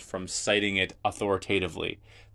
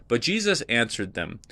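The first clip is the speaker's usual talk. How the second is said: reading the passage out, a bit louder and declaimed; scripture reading; 4 dB louder than usual. Acted. Teacher reads Jesus answering the Sadducees, declaimed scripture. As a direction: read it like the Gospel in a service.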